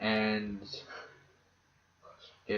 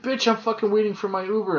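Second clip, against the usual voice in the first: higher, louder re-enacted swearing; retold yelling; 11 semitones higher, 6 dB louder than usual. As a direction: bark it at the guard who grabbed you. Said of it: "I'm like".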